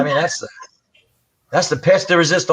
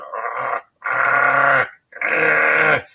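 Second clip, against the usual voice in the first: imitated dog growl; much slower than usual. Investigator imitating the growling little dog, light growl. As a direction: growl it the way the Chihuahua did.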